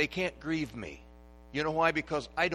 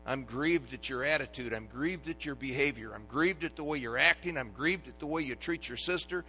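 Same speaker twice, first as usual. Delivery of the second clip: grieved mother; 3 semitones higher, 9 dB louder than usual. Retold or imitated. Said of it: "what she'd say".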